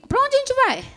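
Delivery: wife catching husband packing, startled high cry; shocked question. Retold or imitated. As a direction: blurt it out in disbelief. Shocked wife sees packed bags.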